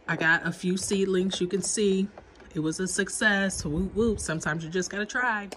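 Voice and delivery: blocked nose, under the weather; stuffy nose. Real, not acted. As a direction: speak through a stuffy head cold. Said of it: "in case I sound stuffy".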